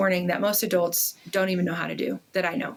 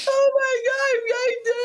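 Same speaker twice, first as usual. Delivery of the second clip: overjoyed gasp; 3 dB louder than usual. Retold or imitated. Mom overwhelmed by pride, very high and loud. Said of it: "And I was like".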